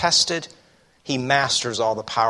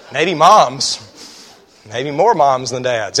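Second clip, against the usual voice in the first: laughing aside; 8 dB louder, slower than usual. Real, not acted. Joke about parents.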